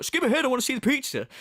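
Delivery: hammed-up hurry; mock impatience. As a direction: imitate someone demanding to skip ahead. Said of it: "he's like".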